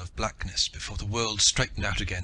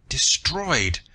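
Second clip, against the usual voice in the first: loud, high furious outburst; raging; 5 semitones higher, 3 dB louder than usual. A narrator's reading. Man raging at his lost chance to learn, furious. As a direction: rage at the loss. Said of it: "Rakhal raged".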